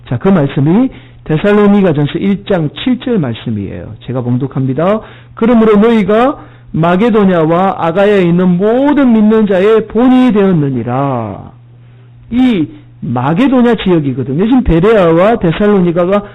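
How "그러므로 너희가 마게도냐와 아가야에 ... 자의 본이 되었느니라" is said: scripture reading. Acted. Preacher reading the verse to his congregation, lightly intoned.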